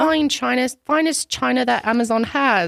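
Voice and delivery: hammed-up British tea-party hostess; very British accent. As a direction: announce it in a put-on British accent. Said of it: "we are being very British".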